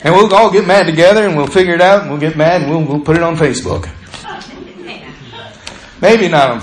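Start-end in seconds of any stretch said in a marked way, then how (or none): 0.0-3.9 excited sympathy. Acted. A woman hearing about a bad day, eagerly joining in. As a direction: gush along, building up. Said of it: "A woman says".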